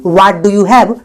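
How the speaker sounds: very slow, word by word; slow, clear dictation; slow model sentence. Shown as a demonstration. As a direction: spell it out slowly for learners. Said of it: "तो बोल सकते हैं".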